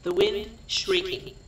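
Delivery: deliberate, projected scene reading; script narration. A narrator's reading. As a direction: read out stage directions in short phrases with pauses.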